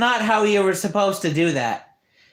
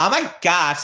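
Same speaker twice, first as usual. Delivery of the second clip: put-on spoiled rich girl voice; 2 semitones lower than usual. Offering a voice for anyone who needs one: spoiled rich girl voice. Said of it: "any type of like, you know, spoiled brat voice, you got one".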